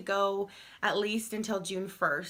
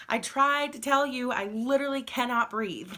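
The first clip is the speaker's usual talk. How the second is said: retold exasperation; 4 semitones higher, 3 dB louder than usual. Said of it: "I was kind of annoyed about that".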